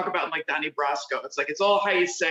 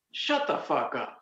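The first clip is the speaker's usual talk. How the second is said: disbelief; 5 semitones lower, 5 dB quieter than usual. Shown as a demonstration. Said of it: "it depends on how you say it".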